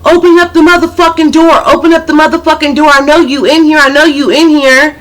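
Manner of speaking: mock a furious girl demanding entry; rapid, high-pitched pounding-on-the-door rant; yelling girl. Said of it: "I hear a girl out there".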